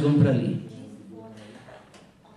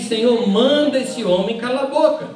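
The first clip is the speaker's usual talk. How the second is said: acted annoyed complaint, higher pitch; mildly annoyed; 5 semitones higher than usual. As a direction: complain to the master, mildly irked. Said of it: "Os discípulos ficam chateados".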